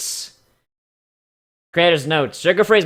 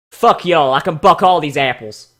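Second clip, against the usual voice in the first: Apple family voice; 3 dB louder than usual. Pretend. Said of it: "my Apple family voice".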